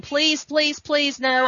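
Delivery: high-pitched begging, lightly acted; retold panicky plea; mock pleading. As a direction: plead for your life, half in jest.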